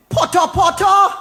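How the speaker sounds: Poto, poto with a lifted, emphatic delivery; Poto said emphatically. Shown as a demonstration. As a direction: call out Poto, poto. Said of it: "when we say something poto".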